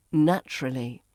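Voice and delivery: "Naturally" as NATCH-ruh-lee; reduced form. Shown as a demonstration. Teacher repeats the shortened word, "Naturally" as NATCH-ruh-lee. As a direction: run the end of "Naturally" together. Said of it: "becomes naturally".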